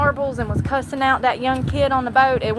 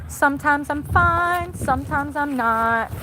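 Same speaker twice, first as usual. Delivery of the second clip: drawn-out musing; 4 semitones higher, slower than usual. Acted. Sing-song musing before voice.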